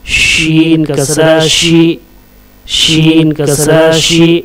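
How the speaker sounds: measured, level-pitched chant of letter names; spelling drill recitation. Shown as a demonstration. Teacher drilling Arabic letters with kasra for learners, measured recitation. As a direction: recite letter, vowel sign, syllable in even beats.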